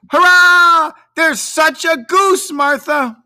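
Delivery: put-on very high, loud kids' cheer; young Cratchits whooping at their sister; excited children. A narrator's reading. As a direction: jump up and down shouting it. Children cheer about the goose.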